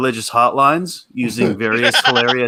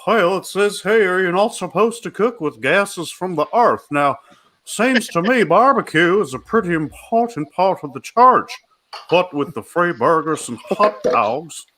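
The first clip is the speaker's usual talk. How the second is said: put-on Louisiana accent; 4 semitones higher than usual. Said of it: "the gay Louisiana".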